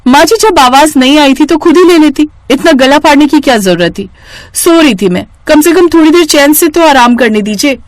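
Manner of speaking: the daughter-in-law woken up, fed up and rude; angry daughter-in-law. Acted. Bahu snaps at her sas. (झुंझलाई हुई बहू की तीखी, ऊँची आवाज़)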